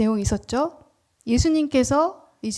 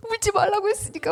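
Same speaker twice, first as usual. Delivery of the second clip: hammed-up tearful whimper, higher; mock crying; 8 semitones higher, 7 dB quieter, faster than usual. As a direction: fake a sob while laughing. Mocks suppressing tears. (우는 척 과장된 흐느낌)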